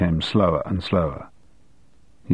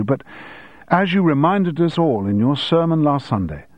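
lightly voiced earnest pupil; apologise, then piously explain, starting high; polite pupil settling into a measured quotation; apologetic schoolboy; 5 semitones higher than usual. Keith apologises, quotes the sermon.

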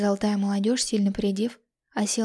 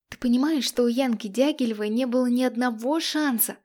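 demanding; 3 semitones higher, 3 dB louder than usual. Acted. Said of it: "вопрошала я".

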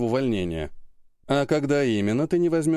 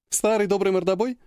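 knowing; 8 semitones higher than usual. A narrator's reading. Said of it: "Понимающе закивала Ольга".

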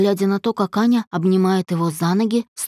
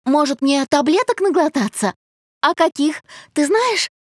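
1 eerily cheerful; 6 semitones higher than usual. A narrator's reading. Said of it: "вдруг улыбнулась".

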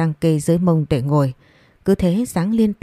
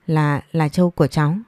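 halting, stammered start; scared girl stammers her confession to the angry old woman; stammering. Acted. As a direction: trip over the first word in fear. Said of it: "Nó nói lắp bắp".

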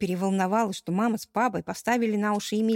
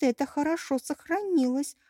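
ordinary delivery

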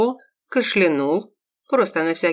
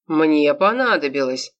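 angry. Acted. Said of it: "сердито переспросил секьюрити".

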